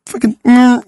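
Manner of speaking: retold road-rage grunt; mock frustrated curse. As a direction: spit it out like stuck behind an idiot. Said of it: "I'm like".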